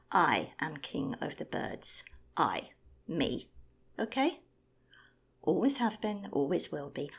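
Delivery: loud, haughty declaration; pompous loud boast. Acted. Condor proclaiming his kingship to the flock, loud and pompous. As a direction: proclaim it as lord of birds.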